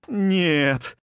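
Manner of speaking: a sharp, high scream of no; screamed denial. A narrator's reading. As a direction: shout it against the truth. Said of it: "закричала Илая".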